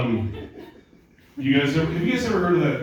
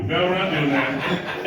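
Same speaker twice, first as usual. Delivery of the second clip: ordinary talk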